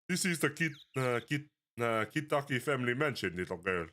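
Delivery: put-on lightly Russian-accented lady; a hint of a Russian mob wife. A mob wife greeting strangers at her gate, light Russian accent. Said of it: "like, a Russian voice".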